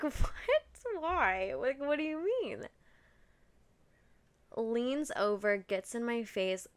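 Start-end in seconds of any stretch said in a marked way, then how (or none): 0.0-2.7 giggling confusion. Retold or imitated. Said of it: "So I'm kinda giggling".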